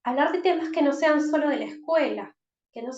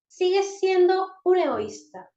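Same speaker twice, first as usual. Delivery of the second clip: loud, high accusing reproach; scolding parent; 7 semitones higher, 5 dB louder than usual. Shown as a demonstration. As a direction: accuse the child sharply, louder. Ejemplo de frase que califica. (reproche fuerte y agudo)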